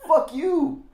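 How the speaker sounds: loud high laughing fuck you; mock shout, laughing; laughing curse. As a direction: yell it through a laugh. Retold flip-off, laughing.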